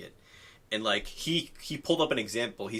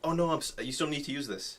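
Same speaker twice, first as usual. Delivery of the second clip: higher, urgent reminder; exactly as said; 3 semitones higher, 5 dB quieter than usual. Shown as a demonstration. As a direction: blurt it out like in the moment. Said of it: "I'll say exactly how you said it".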